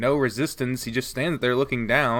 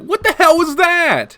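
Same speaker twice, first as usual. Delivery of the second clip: What the hell was that, stress on the, much higher and louder; voice climbing higher; 10 dB louder than usual. Acted. Protagonist's voice cracks higher confronting Shuichi, much higher pitch. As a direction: let the voice jump up high in alarm. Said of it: "My voice comes out a little higher".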